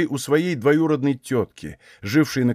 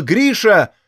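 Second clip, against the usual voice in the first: calling out; 7 semitones higher, 5 dB louder than usual. A narrator's reading. Aksinya cries out to Grigory riding past. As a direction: call Grisha, higher and louder. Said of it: "крикнула".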